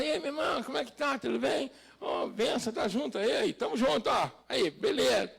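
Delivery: loose, chatty everyday hello; casual street greeting. Retold or imitated. Preacher imitating a believer greeting pals off the altar, casual street greeting. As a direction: greet a buddy informally. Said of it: "Aí você tá aí no altar".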